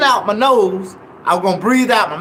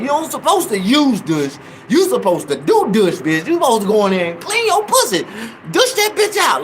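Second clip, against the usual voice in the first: exasperated rant; 3 semitones higher than usual. Retold or imitated. Scolding the lady over her wording, building to a mock yell. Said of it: "And I like".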